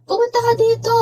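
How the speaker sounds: calling out. Retold or imitated. Calling friend by elevator.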